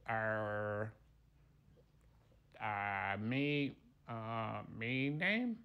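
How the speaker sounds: halting, dim-witted creature voice; dumb meatball. Acted. Dumb meatball struggles to give his name, dim-witted. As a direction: grope for each word, slow on the uptake. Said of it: "we got a dumb one here".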